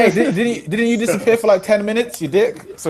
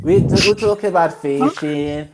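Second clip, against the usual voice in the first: bad Southern accent. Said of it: "that's a pretty bad Southern accent".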